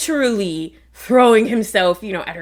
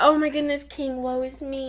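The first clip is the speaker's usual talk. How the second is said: theatrical queen; 6 semitones higher, 3 dB quieter than usual. Retold or imitated. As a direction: ham up a queen's woe before the king. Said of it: "she's being theatrical".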